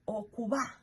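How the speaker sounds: okuba with a weak, v-like B; okuba, b softened toward v; soft B. Shown as a demonstration. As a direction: say okuba without pressing the B. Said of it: "the B is not pronounced".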